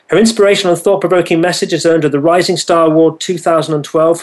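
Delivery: rushed, barely pausing reading; all in one breath. Shown as a demonstration. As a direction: race through the list without breathing. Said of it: "I'm out of breath".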